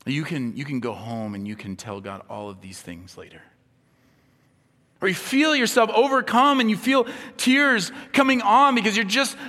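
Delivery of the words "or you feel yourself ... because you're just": loud, high, impassioned preaching; full-force preaching. Acted. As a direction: preach it out to the whole room.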